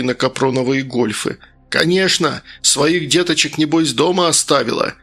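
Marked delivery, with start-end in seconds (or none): 1.7-4.9 snapping. Acted. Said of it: "рявкнул Лисовский".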